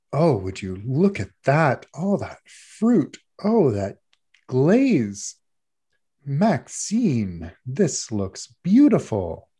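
slow, lightly voiced gracious judge; a hint of a doting baking judge; gushing judge. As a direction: savour each compliment like a kindly judge. Judge admires cake.

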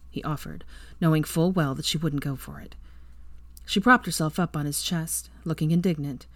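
usual speaking voice

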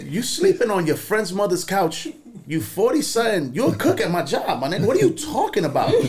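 a heated, half-amused rant. Retold or imitated. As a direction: tear into him, half laughing. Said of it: "I went off".

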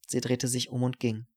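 ordinary delivery, nothing marked

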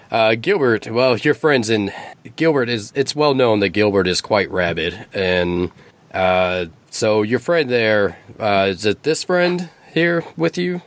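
eagle voice. Acted.

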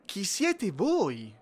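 irritated. Acted. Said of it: "le rispose con stizza".

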